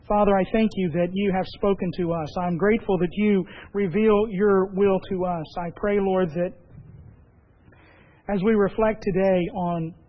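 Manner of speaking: lightly prayerful, steady address to God; closing prayer. Acted. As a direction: pray aloud for the congregation, evenly and sincerely.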